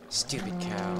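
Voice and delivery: mock angry. Mock anger at cow.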